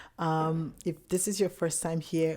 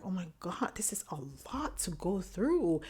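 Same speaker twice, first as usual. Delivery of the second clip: hushed, half-whispered worry; quietly overwhelmed, almost whispering; anxious inner thought; 2 semitones higher, 4 dB quieter than usual. Retold or imitated. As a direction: voice a worried thought under your breath. Voicing her anxious waiting-room thought.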